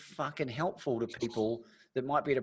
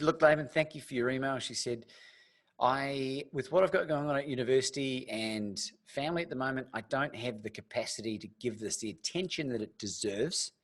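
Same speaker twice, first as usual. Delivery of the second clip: put-on Southern accent. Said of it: "I love that accent you do".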